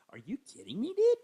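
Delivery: breathy disbelieving whisper; stunned whisper. Retold or imitated. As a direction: hush it out in disbelief. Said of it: "disbelief at the yelling".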